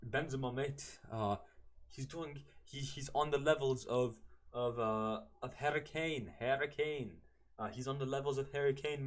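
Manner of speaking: badly faked English commentator accent. Imitating English commentators praising Benzema, in a botched English accent. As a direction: have a go at a mock English accent, halting and unsure. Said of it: "I don't know my English accent".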